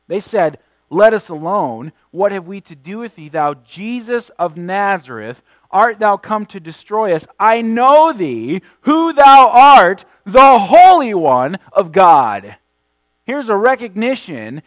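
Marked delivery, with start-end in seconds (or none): 0.9-12.6 demons' cry, emphatic. Shown as a demonstration. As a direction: proclaim the demons' words with weight.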